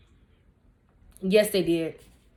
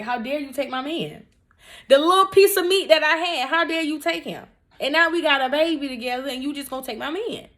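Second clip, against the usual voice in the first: higher, louder, hammed-up indignant rant; mock outrage; 7 semitones higher, 3 dB louder than usual. Teen mom reliving fury at dad who jailed her man, mock outraged rant. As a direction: play the wronged teen girl, over the top. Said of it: "That's how I felt".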